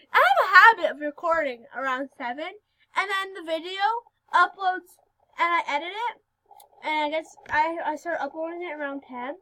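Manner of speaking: new palate expander slurring words; talking with expander. Real, not acted. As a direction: talk around a retainer-like expander. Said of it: "I'm sorry if I talk weird".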